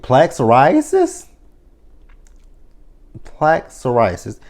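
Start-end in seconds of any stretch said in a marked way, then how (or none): 0.0-1.3 incredulous. Shown as a demonstration. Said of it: "That's what you talk about on the first date?".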